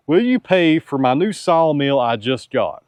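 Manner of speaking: laughing through the quoted question; giggling reread of the viewer's ask. Retold or imitated. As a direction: crack up while rereading it. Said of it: "his question is".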